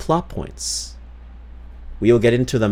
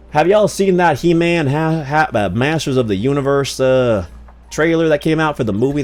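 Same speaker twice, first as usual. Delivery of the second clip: a hint of a Southern twang, louder and higher; light Southern accent; 4 semitones higher, 3 dB louder than usual. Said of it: "talking about a Southern accent".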